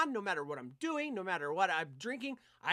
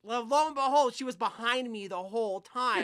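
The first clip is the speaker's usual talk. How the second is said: higher and louder, building laughter; telling the crowd the stripper overheard: loud and laughing; excited punchline; 4 semitones higher, 8 dB louder, slower than usual. Real, not acted. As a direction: land the reveal loud and amused. Punchline of the story.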